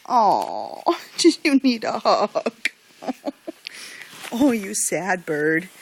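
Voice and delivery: slow teasing pet talk; cooing. Real, not acted. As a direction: coo at a sulking bird with a giggle. Cooing to sulking bird.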